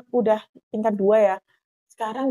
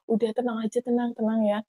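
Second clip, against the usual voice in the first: softer, reassuring assistant; gentle retold reassurance; calming; 6 dB quieter than usual. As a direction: quietly settle someone who is panicking. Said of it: "kata asistennya".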